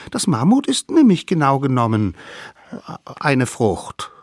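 high little voice, halting before the punchline; knowing littlest savage. A narrator's reading. Littlest savage reclassifies the mammoth as fruit, knowingly. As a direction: explain it loudly, pause, then land the claim.

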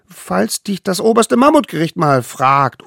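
high, eager little voice; tiny eager hunter. Acted. Little hunter brings food to the mammoth, high and eager. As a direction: play the smallest one, proud and keen. Allerkleinste explains.

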